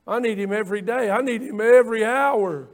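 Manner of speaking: rising to a loud cry on "every hour"; building fervent cry. Real, not acted. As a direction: swell from firm to loud. Building declaration of need.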